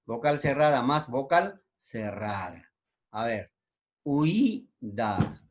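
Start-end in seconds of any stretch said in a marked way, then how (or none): 4.0-5.4 "huida" as hui, pause, da; syllable by syllable. Shown as a demonstration. Teacher showing ui in one syllable, "huida" split in two. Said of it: "una sola sílaba".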